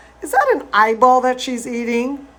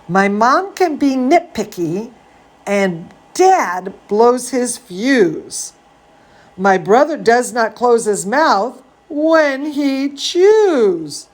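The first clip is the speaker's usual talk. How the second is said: put-on reading to children; 2 semitones higher, slower than usual. A narrator's reading. Reading Zambolina to kids, lively storybook voice. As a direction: read it like a bedtime story for little ones. Reading picture book aloud.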